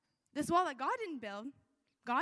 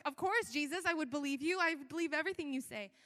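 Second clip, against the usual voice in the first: churchy; 2 semitones higher than usual. Retold or imitated. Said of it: "in my churchy way".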